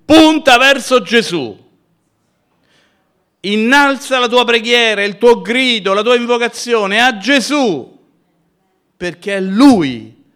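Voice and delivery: high, loud exhortation; full-force preaching. Acted. Preacher urging the faithful to pray, at full force. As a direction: lift the congregation with every phrase.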